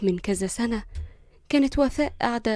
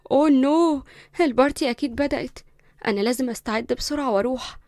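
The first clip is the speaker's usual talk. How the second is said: higher startled exclamation; 3 semitones higher, 3 dB louder than usual. Acted. Linda noticing the time, startled. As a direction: catch yourself late. Realizes she's late.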